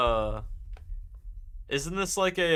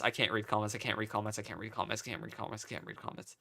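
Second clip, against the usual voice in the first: softer each time until whispered; fading to whisper; 3 semitones lower, 8 dB quieter, faster than usual. Pretend. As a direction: let it die away to a whisper. Repeating phrase, fading to whisper.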